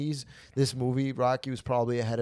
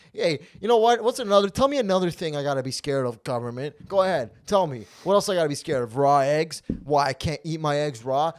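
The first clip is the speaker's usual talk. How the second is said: raised, louder mock rant; mock ranting at the government; 3 semitones higher, 4 dB louder than usual. Ranting at the government over raw eggs, mock outraged.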